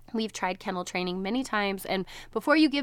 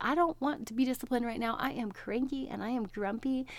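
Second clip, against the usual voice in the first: mock cranky grumble; 3 semitones higher, 5 dB quieter than usual. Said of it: "I was so annoyed".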